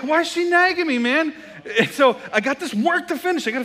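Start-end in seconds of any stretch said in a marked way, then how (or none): 0.0-1.3 loud, much higher exasperated whine, laughing; frustrated complaint. Retold or imitated. Pastor retells his annoyance at wife's texts, loud mock whine. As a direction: vent like a fed-up husband. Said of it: "I'm like".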